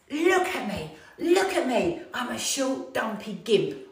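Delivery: high, loud mock-tantrum wail; stropping rant. Stropping round the front room in a wetsuit, loud high mock wail. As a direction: strop about wailing at your own reflection. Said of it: "I am stropping round the front room".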